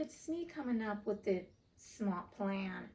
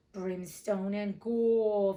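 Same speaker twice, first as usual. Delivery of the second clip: louder, very slow mock-Hook retort; 7 dB louder, much slower than usual. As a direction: throw his own oath back at him, slowly. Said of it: "the voice retorted".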